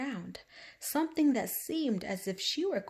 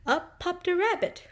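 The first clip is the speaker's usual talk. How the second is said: popped up; 10 semitones higher, 4 dB louder than usual. A narrator's reading. Rabbit pops up, excited narration.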